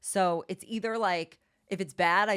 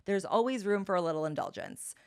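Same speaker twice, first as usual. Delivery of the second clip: ad read. Acted. Sponsor ad read.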